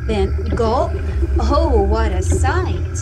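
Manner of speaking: loud, wide-eyed cry of wonder; amazed outburst. Acted. Storyteller reveals the treasure, loud amazed cry. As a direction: make the kids gasp at the sight.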